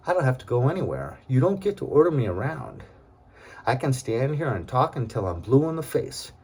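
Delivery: indignant retort. Retold or imitated. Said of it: "I was like".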